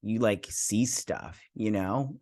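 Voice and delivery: hesitant, filler-laden Gen Z parody; mock a rambling Gen Z talker; mock Gen Z princess. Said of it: "talk like a Gen Zer".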